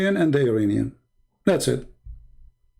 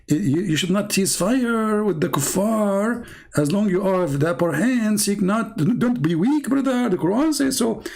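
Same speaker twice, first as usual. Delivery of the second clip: raised pitch, drawn-out mock exhortation; mock zealous believer; 4 semitones higher than usual. Acted believer urges his brother not to cease fire, mock exhortation. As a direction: urge him on, climbing higher as you go.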